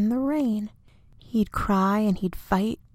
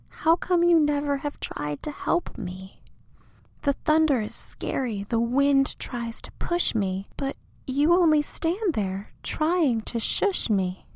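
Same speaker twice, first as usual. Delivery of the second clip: put-on higher, complaining child voice; hurt little tree; 6 semitones higher than usual. Little tree complaining to big tree, a little hurt. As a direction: ask it reproachfully like a small child. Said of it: "little tree complains to friend".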